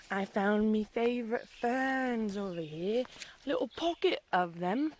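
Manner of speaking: a touch of British; lightly put-on British accent. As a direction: play it a little British. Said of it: "A little British".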